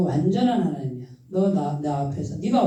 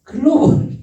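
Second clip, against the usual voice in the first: emphatic shout; 6 semitones higher, 8 dB louder than usual. Acted. Preacher punches a key word.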